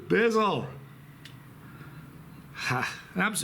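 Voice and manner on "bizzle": cheering. Real, not acted. Cheers for his friend Bizzle.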